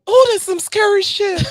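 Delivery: high put-on voice for a quoted sound bite; movie sound bite. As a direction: squeal it like the clip.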